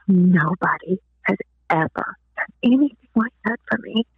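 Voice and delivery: understated imitation of weeping; halting, softening at the end. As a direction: voice her tearful gratitude gently. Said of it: "she just began to weep".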